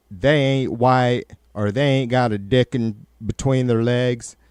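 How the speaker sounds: lightly put-on hillbilly accent. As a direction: slip into a rural hillbilly accent. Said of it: "I don't know why I'm talking like a hillbilly now".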